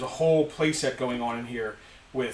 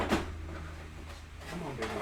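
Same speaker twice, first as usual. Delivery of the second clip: very soft, breathy coaxing; coaxing under breath; 11 dB quieter, much slower than usual. Real, not acted. Host coaxing a stubborn toy, under his breath. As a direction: quietly urge the stubborn thing along.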